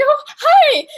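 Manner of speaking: squeaky nervous fan greeting; starstruck hi. Retold or imitated. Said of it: "I was like".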